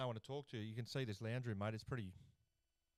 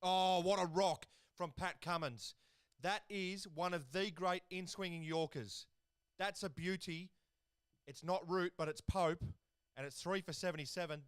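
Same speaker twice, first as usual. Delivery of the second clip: excited wicket call; 5 semitones higher than usual. Real, not acted. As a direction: sell the wicket like a TV commentator who can't believe it. Wicket falls, live commentary call.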